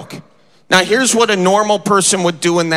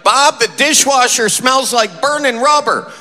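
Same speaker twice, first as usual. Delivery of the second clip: slightly higher, complaining grandma voice; lightly voiced grandma; 5 semitones higher than usual. Grandma Sue to her husband about the dishwasher, lightly voiced higher complaint. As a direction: lightly imitate a grandma calling out a problem. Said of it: "she would say something like".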